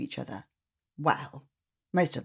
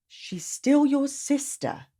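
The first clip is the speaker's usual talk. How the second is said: mama voice; 9 semitones higher, slower than usual. Acted. Mama gently correcting.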